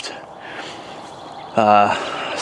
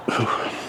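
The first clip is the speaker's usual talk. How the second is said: hiccup; 10 dB quieter than usual. Real, not acted. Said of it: "Excuse me, got the hiccups".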